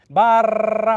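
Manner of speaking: the trilled "Bara" again; full trill. Shown as a demonstration. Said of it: "take one part of that".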